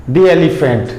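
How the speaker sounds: दी एलिफेंट run together as one phrase; दी gliding straight into एलिफेंट; no pause. Shown as a demonstration. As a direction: say "दी एलिफेंट" without stopping after दी. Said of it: "यहाँ हम इसमें रुकते नहीं हैं".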